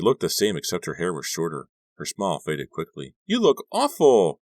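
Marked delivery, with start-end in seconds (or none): 3.2-4.4 high shocked exclamation. Acted. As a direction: gasp it out in alarm. Margot shocked at his face.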